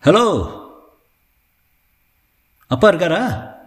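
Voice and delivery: high, small yappy dog asking a question; little dog's voice. A narrator's reading. The pomeranian greets Vasanth at the gate, small high dog voice. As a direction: pipe it up like a tiny pomeranian. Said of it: "சின்ன குரலில் குரைத்தது".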